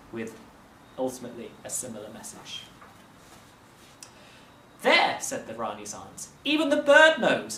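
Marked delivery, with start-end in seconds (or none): 4.8-5.2 put-on much higher, louder, shrill-sounding old aunt; the aunt crowing that she was right; Rani's aunt. A narrator's reading. 6.4-7.6 put-on much higher, louder, shrill-sounding old aunt; the aunt crowing that she was right; Rani's aunt. A narrator's reading.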